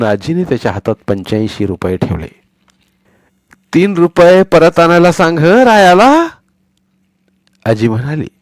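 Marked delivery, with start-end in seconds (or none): 3.7-6.3 put-on slow, higher, louder old woman's voice; instructing grandmother. Grandmother telling Sonya to bring three rupees back, careful. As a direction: spell out the change carefully.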